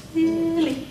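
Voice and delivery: "Silly" with a long, high first syllable; stretched "Silly" falling at the end; long then short. Shown as a demonstration. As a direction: hold "Sil", then a short "ly". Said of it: "how important it was to go long, short".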